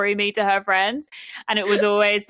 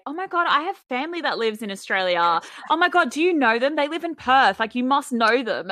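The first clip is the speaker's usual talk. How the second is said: imitating eager strangers, higher pitch; mock excitement; 5 semitones higher than usual. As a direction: gush like a thrilled new acquaintance. Acted quote of eager people.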